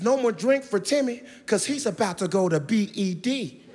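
lightly voiced parent spelling out a secret; mock parent spelling the word out; a hint of a sly parent hiding a word from the kid. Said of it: "how some of y'all do your kids".

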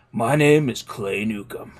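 lightly voiced smooth podcast host; Clay Newcomb impression. Host imitates Clay's intro slowly and smoothly. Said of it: "love Clay's podcast".

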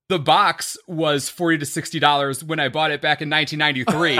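laughing quote. Retold or imitated. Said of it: "and he's like".

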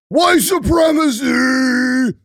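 high, slow mock shout; outraged headline shout, slow and high; mock media outcry. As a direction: ham up the media's panic.

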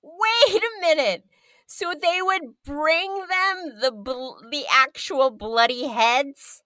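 high, slow, horrified questioning; stunned disbelief. Real, not acted. Cohost asks if they really brought bloody heads, stunned.

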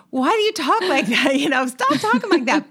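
laughing imitation of an exasperated kid at home; retold protest. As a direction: protest to your family, laughing as you go. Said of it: "and so I was like".

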